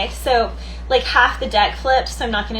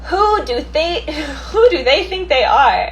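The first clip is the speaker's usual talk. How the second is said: mock indignant; 5 semitones higher, 4 dB louder than usual. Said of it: "someone here is like".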